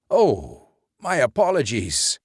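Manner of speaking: quick startled apology; exclaiming. A narrator's reading. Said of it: "Mister Esch exclaimed".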